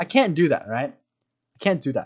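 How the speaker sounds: ordinary talk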